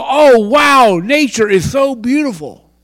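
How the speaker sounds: loud, high, gushing "Oh, wow"; mock gushing wonder. The wrong way to watch a sunset, gushing over nature. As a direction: gush like someone in awe of nature. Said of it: "don't go".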